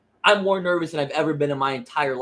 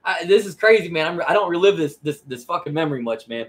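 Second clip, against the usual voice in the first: getting emotional; 4 dB louder than usual. Real, not acted. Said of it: "I'm sorry, man".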